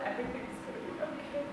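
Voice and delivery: hushed, gentle reassurance, nearly breathless; calm her like a frightened child; soothing whisper. Retold or imitated. Telling the possessed woman in her lap, soft reassurance.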